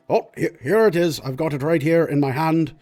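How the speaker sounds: lightly voiced polite lord; a hint of fussy nobleman; obliging lord. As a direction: put on innocent helpfulness as a lord. Lord pretends to find the paperwork.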